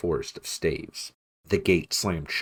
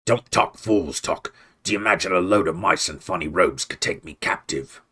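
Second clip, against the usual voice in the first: contemptuous; 4 dB louder than usual. Acted. Clooney scorning Redtooth's fear, contemptuous. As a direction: sneer down at the idea. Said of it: "spat contemptuously".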